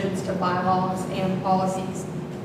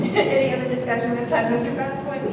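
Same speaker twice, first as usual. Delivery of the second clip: laughing; 2 semitones higher, 4 dB louder than usual. Real, not acted. Chair teases after the joke.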